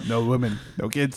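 lightly imitated German-ish accent; vaguely German accent. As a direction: try out a slight, muddled German accent. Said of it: "It sounds like German, kinda".

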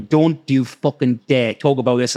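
slow, deliberate mock warning; imitating managers warning you off; menacing managers. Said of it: "as if it was devil horns".

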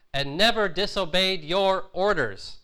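resentful son protesting to his father; angry complaint. Retold or imitated. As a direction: lean hard on never, wounded and furious. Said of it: "then his anger comes out".

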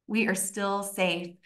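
hushed, settling repeat; soft reassurance. Retold or imitated. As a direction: let it land gently and quietly. Same reassurance repeated softly.

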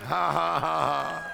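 drawn-out forced "ha, ha, ha"; demonstrated laugh; deliberate laugh. Shown as a demonstration. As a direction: laugh on purpose, slowly. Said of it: "do a little bit of laugh".

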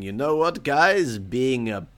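amateur Ironborn accent, played for laughs. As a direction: have a go at a rough-and-ready Ironborn accent. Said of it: "that's my best Ironborn accent impression".

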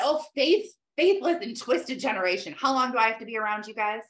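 mock fed-up sigh of a teacher; irritated Jesus. Jesus scolding the faithless crowd, mildly irritated. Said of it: "he's so irritated".

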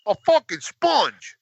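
very high, slow, laughing disbelief. Real, not acted. Laughs at own misfortune.

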